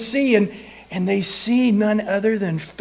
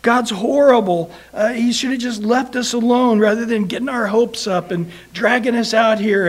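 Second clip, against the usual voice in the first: whiny complaining; 2 semitones higher, 3 dB louder than usual. Retold or imitated. Israelites at the Red Sea whining against God, loud complaining. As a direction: grumble like someone sure they're doomed. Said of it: "immediately they start complaining".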